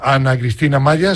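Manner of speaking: usual speaking voice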